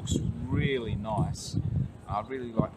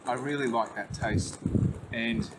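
spoon in hand while talking; eating soup while talking; talking between bites. Real, not acted. Seen 1: Holds spoon over stew bowl, scooping; took bite at -4s.

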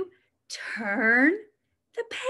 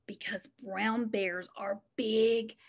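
whisper; 4 semitones lower, 6 dB quieter than usual. Acted. Building suspense for kids.

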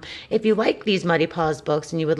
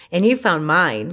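laughing; 4 dB louder than usual. Acted. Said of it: "laughed Ben".

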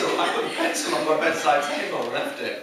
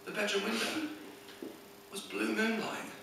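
hushed, much softer ghost-story telling; suspense storytelling; 4 semitones higher, 7 dB quieter than usual. Acted. Comedian reveals the moonlit bedroom, hushed suspense. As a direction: build dread quietly, pausing between phrases.

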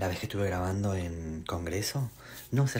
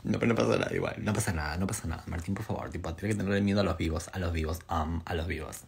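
calming herself. Real, not acted. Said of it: "me estoy tranquilizando".

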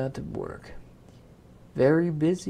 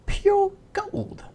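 very high, loud marveling; awed king; 9 dB louder than usual. Acted. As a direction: gush over the treasure.

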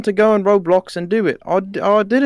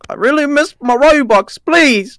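tearful pleading. Acted. Scammed gambler begging the YouTuber for Robux, tearful pleading. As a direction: beg as if close to tears. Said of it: "Don't cry".

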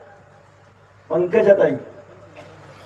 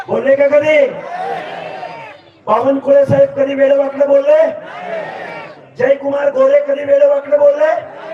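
rally shout; 5 semitones higher than usual. Real, not acted. Rally speaker's rhetorical questions.

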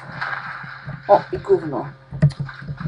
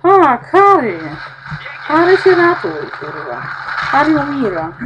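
loud, much higher alarmed cry; panicked shout; 7 semitones higher, 7 dB louder than usual. Real, not acted. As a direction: yell in panic as he dies. Character dying, she panics. (spanikowany krzyk)

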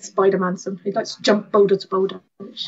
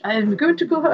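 put-on French accent; 5 semitones higher than usual. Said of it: "oh, she was French".

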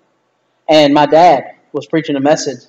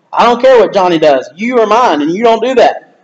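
lightly voiced parent laying down the law; a touch of parental firmness, pitch lifted; stern parent; 3 semitones higher than usual. Parent telling a child off about copying Johnny, mildly stern. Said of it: "if you've been a parent".

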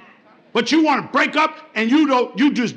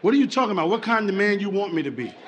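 low, subdued acted puzzlement; confused; 5 semitones lower, 4 dB quieter, faster than usual. Confused man asking his woman what she wants, low puzzlement. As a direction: ask low, lost for what she means. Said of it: "Men are very confused".

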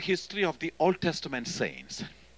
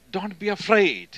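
higher and louder "Don't be afraid"; strong reassurance; 6 semitones higher, 8 dB louder than usual. Retold or imitated. Jesus declaring to his people, higher and loud. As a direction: declare it boldly.

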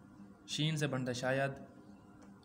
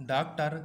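teacher's loud word call; emphatic call-out; 5 dB louder than usual. Shown as a demonstration. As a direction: announce डॉक्टर firmly to the class.

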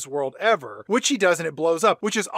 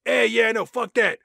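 dismissive shrug; 3 semitones higher than usual. Retold or imitated. Voicing Howard dismissively.

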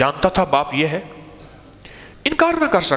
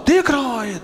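calling out, raised a little; boy alerting his father he is seen; loud call; 8 semitones higher than usual. Retold or imitated. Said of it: "اس نے زور سے کہا".

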